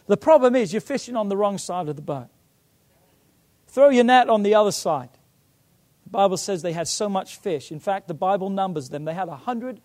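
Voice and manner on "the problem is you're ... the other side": raised voice building to a shout; calling from shore. Retold or imitated. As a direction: shout instructions out to the boat. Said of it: "Jesus shouts out from the shore".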